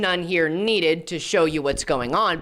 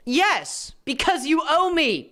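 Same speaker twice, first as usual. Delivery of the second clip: higher, put-on smug voice; mock entitled mentor; 7 semitones higher, slower than usual. Commentator mocking the mentor's entitled demand, in a smug higher voice. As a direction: sneer it like a boss who thinks you owe him.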